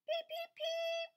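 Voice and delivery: very high, slow squeaky peeps; slow duckling peeps. Acted. Reading to a child, wakeful duckling peeping slowly. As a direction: stretch out tiny peeps. Baby duck won't sleep.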